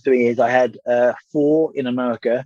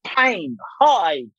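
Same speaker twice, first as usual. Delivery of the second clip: high, hammed-up lament, much higher; over-the-top mock mourning, pitched high; mock melodramatic; 9 semitones higher, slower than usual. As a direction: play up the grief for laughs, stretching the list out slowly. Retold melodramatic plea, listener laughs.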